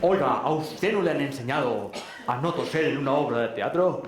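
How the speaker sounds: a mild mock telling-off from the stage; a hint of an irritated actor scolding the audience; imitating a scolding actor. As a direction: play the actor scolding the cougher, understated. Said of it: "para reñir a un tipo".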